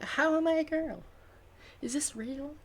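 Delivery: high, startled disbelief; shocked. Acted. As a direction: gasp it out in shock. Revived character in shock.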